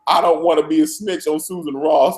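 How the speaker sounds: high, laughing mock-tearful squeal; hammed-up frightened inmate near tears; imitating the whimpering prisoner. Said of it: "And he's like".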